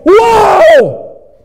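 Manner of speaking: high, loud cry of amazement; amazed whoa. Shown as a demonstration. Pastor showing what behold really means, loud amazed whoa. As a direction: shout it out in wonder. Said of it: "And it's more like".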